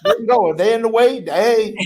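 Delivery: zealous defiance. Retold or imitated. Defiant prayer to God.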